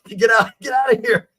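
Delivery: high shouted get out; retold yell. Mother shouting at her son to get out. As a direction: mom yelling at her son to run. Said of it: "she starts yelling at her son".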